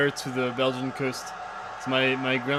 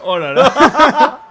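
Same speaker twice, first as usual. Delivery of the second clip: high, loud, drawn-out laughing exclamation; laughing dismay; 10 semitones higher, 12 dB louder, much slower than usual. Real, not acted. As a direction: laugh through it, stretched out and high. Laughs at awkward manager question.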